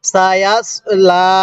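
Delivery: সায়াস kept short, লা held long; don't stretch সায়াস, lengthen only লা; brief সায়াস then a drawn-out লা; correct elongation. Shown as a demonstration. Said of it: "তাহলে কিভাবে পড়তে হবে?".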